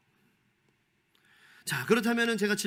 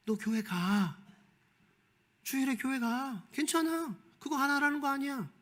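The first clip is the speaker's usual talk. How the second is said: devil's voice; 5 semitones higher, 5 dB quieter than usual. Pretend. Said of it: "마귀의 소리라 내가 그랬잖아요".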